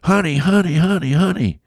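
high excited calling out, over and over; rising excited calls of honey; excited yelling. Retold or imitated. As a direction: call to your wife full of news. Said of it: "and I started yelling".

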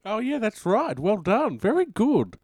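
high, loud hammed-up congratulations; mock praise. Host mockingly praises caller who said nothing, loud and high. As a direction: gush over an answer nobody gave.

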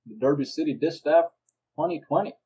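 put-on American southern voice; southern race caller opening the show; southern accent. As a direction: commentate in a mock southern accent. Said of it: "let's switch to a southern accent".

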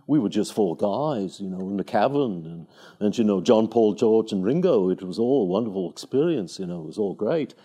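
put-on light Liverpool accent, low-pitched; a band. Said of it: "'cause I was listening to a band".

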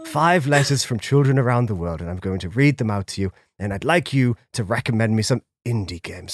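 low, jolly Santa Claus voice. Acted. Plays Santa reading letters.

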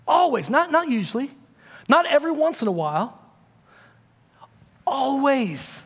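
"Always" rises high then comes back alone; stress on always. Shown as a demonstration. Pastor insists to the congregation, stressing always. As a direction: hit "always" at both ends. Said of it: "contrast of always".

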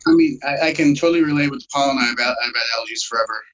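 talking while chewing gum. Real, not acted. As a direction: chew gum as you speak. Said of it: "as you can probably tell, I'm chewing gum".

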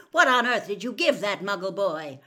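loud scolding father; angry shout. A narrator's reading. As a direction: shout the question in outrage. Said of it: "he shouted".

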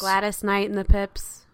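the first name said as GLAD-iss; short unstressed iss ending on the name; standard pronunciation. Real, not acted. Co-host correcting host, saying the name as GLAD-iss. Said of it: "That's how you pronounce her name".

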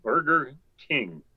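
slow, straight-faced punchline; deadpan. Retold or imitated. Counter girl answering two lost men, slow deadpan. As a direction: say it slowly, completely straight. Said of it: "with a straight face".

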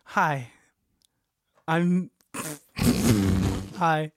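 greeting broken by laughter; laughing attempt. Co-host attempting a wedding greeting for his friend, laughing. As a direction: try to say it and crack up. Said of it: "give it the best attempt".

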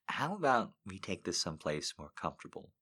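soft, lightly sultry invitation; seductive voice. Acted. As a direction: coax him, a hint of seduction. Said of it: "she asked in her best seductive voice".

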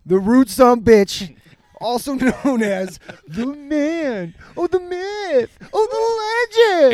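slow, drawn-out hype intro; hammed-up announcer. Host introducing his rude friend, slow mock announcer build. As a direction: stretch it out like a ring announcer.

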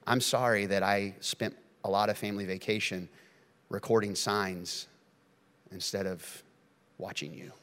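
soft, tearful, fading to a whisper; a father apologizing with tears; tearful apology. Retold or imitated. Dad apologizing to his kids, softly tearful. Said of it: "tears in his eyes".

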